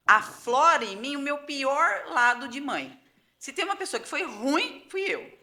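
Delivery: real, pitch climbing as tears well up; segurando o choro. Real, not acted. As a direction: confess painfully, fighting back tears. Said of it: "Ai, não fique aqui chorando". (segurando o choro, voz embargada)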